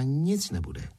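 mildly snappish refusal; short, stern dismissal; curt retort. Acted. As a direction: snap back, refusing him outright. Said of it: "Zuzka odsekla".

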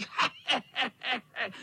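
high wicked cackle; evil cackle. Acted. Tomcat cackling as he corners the boys. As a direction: cackle as you close in. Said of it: "Chechtal se kocour".

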